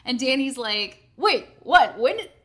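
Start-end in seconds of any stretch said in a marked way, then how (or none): 1.2-2.3 loud, stammered disbelief; baffled. Retold or imitated. Storyteller acting her friend who missed it all, loudly baffled. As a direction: blurt broken questions as the confused friend.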